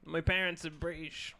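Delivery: softly put-on British-Australian excuse; mock mixed British and Australian accent. Friend inventing an excuse for mixed accents, mock British-Australian. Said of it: "one of your personalities is British".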